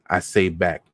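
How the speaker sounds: ordinary delivery, nothing marked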